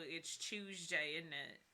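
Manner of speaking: British accent. Shown as a demonstration. Offering an accent for the villain, light British accent. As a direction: lightly put on colloquial British. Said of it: "British accent, like, the southern posh accent".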